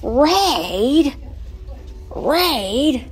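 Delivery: loud, high, drawn-out shout; mock-alarmed commercial holler; playful ad-style shout. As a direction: belt out the product name like an old commercial. Calls out old ad slogan.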